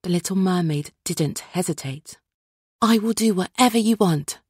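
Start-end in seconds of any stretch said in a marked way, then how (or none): 2.8-4.4 high, fast eager promise; eager cry. Acted. Little Mermaid eagerly agrees to the Sea Witch's bargain, high and fast. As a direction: blurt it out, desperate to agree. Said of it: "she cried".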